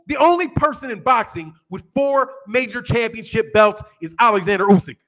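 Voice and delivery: a lightly voiced heated fan reading his comment; mild mock of an online hater; imitating a commenter. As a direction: read the comment like the angry fan who wrote it. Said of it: "Am I doing a good impersonation?".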